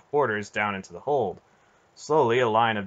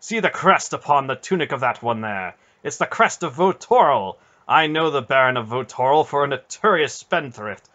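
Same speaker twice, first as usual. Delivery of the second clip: furious; 5 semitones higher, 8 dB louder than usual. A narrator's reading. Knight angry at traitor baron.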